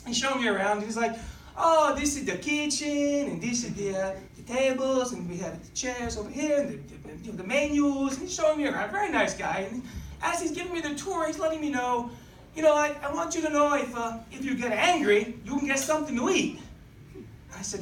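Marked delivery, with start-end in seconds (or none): 1.6-8.2 lightly voiced old Italian man; Italian accent. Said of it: "this nice old Italian man". 12.5-16.6 put-on old Italian owner's accent. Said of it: "this nice old Italian man".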